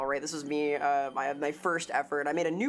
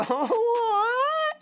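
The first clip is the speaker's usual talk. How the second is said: choking up; 9 semitones higher, 4 dB louder than usual. Real, not acted. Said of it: "I'm gonna cry".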